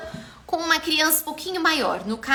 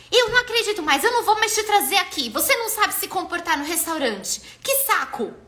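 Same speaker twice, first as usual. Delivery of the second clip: scolding; 5 semitones higher than usual. Shown as a demonstration. Authoritarian mother scolds her child in the restaurant, exasperated. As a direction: snap at the child like a fed-up parent. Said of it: "Dá uma bronca".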